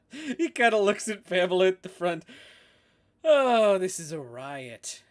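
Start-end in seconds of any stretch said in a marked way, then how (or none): 3.2-5.0 loud, cackling delight at someone's expense; laughing mockery. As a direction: crack up, then crow through the laughter. Joker laughs at Pamela's plight.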